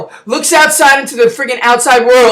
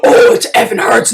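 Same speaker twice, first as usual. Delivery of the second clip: pained yelp; 10 semitones higher than usual. Retold or imitated. Whipped hero in pain.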